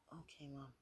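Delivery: lightly voiced meek reply to mom; Izuku. Son answers his mother's request, soft attempted character voice. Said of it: "I'm not good with saying voices".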